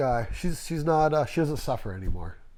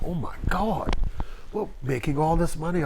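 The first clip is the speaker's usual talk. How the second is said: higher, mimicked British amazement; old British man; 5 semitones higher than usual. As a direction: play the astonished old British boss. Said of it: "You know, old British dude".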